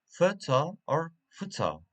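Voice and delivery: first "photo" stressed at the start, second "photo" at the end; "photo or photo", shifting the stress from first to second syllable; contrasting syllable stress. Shown as a demonstration. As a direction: contrast PHO-to with fuh-TOH. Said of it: "photograph and photographer".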